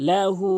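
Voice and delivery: লাহু with the হু held one alif long; drawn-out হু in লাহু; lengthen hu. Shown as a demonstration. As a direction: stretch the final হু in লাহু. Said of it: "লাহু, হু এক আলিফ টানবেন".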